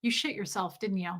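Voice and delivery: soft, deadpan mock accusation; imitating partner. Comedian reminding partner of his remark, quietly deadpan. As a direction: say it quietly, as if knowingly. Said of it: "and you were like".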